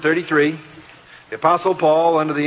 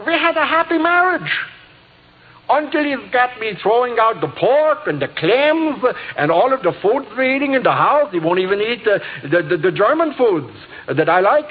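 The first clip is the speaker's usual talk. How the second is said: high, exaggerated German-accented housewife complaining; 5 semitones higher than usual. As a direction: play up the German lady's accent, pitched way up. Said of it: "the accent was beautiful".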